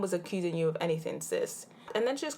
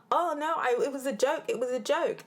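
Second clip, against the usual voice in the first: higher, mock-flustered protest; mock upset; 6 semitones higher than usual. Imitating Mackenzie getting upset at the pit, higher and flustered. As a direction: play her panicking that it was a joke. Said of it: "she starts getting upset".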